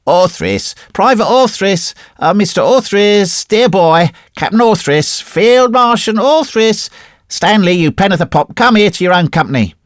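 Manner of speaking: rowdy soldiers shouting for a mate; yells and outcries. Acted. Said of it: "drowned in yells and outcries".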